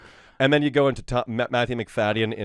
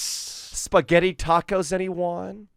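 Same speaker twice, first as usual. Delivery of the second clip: Tim Cook; 3 semitones higher than usual. Retold or imitated. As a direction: sell the product like a stage announcement. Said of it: "Tim, as in Tim Cook".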